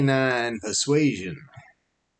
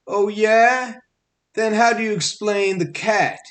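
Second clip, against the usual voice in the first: high, sharp yip, much higher; yipping jackal; 9 semitones higher, 4 dB louder than usual. A narrator's reading. Jackal cuts off Barnaby's excuse, high yipping challenge. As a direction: yap it out like a suspicious jackal. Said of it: "yipped the jackal".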